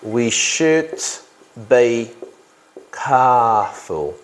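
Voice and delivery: "We should ... be ... careful" in separate chunks; slow dictation. Real, not acted. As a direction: dictate it slowly with a pause after each chunk. Dictates the sentence while writing.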